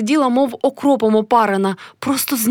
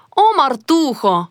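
slow, higher exclamation, slightly choked; 4 semitones higher, slower than usual. A narrator's reading. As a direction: cry out with a touch of constriction. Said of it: "кликнула вона нараз здавленим голосом". (здавлений вигук)

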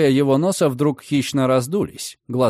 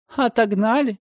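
bitter; 10 semitones higher than usual. Acted. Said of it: "с горечью повторила девушка".

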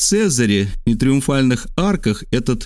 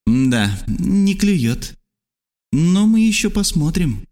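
lightly voiced high character thought; Trasul's inner thought; 8 semitones higher, slower than usual. A narrator's reading. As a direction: think aloud in Trasul's higher voice. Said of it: "подумал Трасул".

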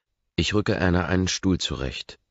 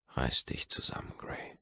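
innere Ermahnung; 9 dB quieter than usual. A narrator's reading.

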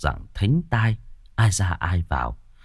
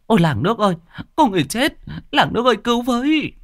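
panicked shout; much faster than usual. A narrator's reading. Woman finding a corpse calls the village. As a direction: scream out to the whole village. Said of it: "Hô liền mấy câu như vậy".

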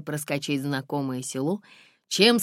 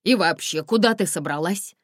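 louder, alarmed cry; exclaimed; 6 semitones higher, 6 dB louder than usual. A narrator's reading. Driver alarmed the girl will be hunted, crying out. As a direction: blurt it out in alarm. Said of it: "вскрикнул".

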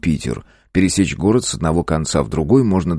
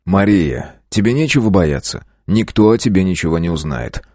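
ingratiating. Acted. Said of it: "вкратчиво заговорил я".

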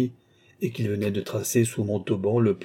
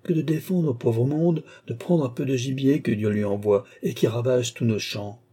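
shouting; 2 semitones higher than usual. Acted. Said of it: "criait-il à pleine fête".

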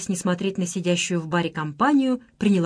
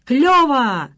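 put-on loud, high drunken whoop; rowdy shout; 5 semitones higher, 6 dB louder than usual. A narrator's reading. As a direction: yell it like a football fan. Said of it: "топал ногами молодой человек и свистел". (восторженный пьяный выкрик)

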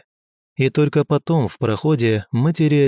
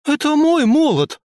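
much higher, louder furious yell; fierce indignant shout; 4 dB louder than usual. A narrator's reading. Tora claims her hammer from the girl, high loud furious yell. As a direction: scream it like a robbed warrior. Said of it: "свирепо и одновременно возмущённо прокричала Тора".

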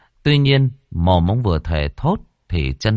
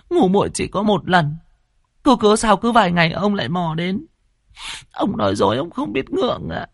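put-on threatening young woman; 14 semitones higher than usual. A narrator's reading. Wronged maid threatening to haunt the landlord. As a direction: threaten him like a vengeful ghost-to-be.

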